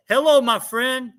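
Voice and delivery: mock polite phone voice; nephew on the phone. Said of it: "I heard him go".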